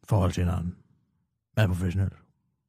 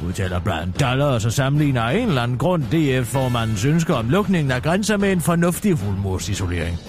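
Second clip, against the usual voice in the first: news read. Acted. Reads a radio newscast.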